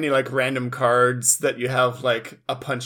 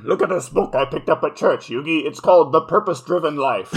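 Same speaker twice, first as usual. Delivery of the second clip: lightly voiced church mom; 4 dB louder, faster than usual. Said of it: "Yami Carol".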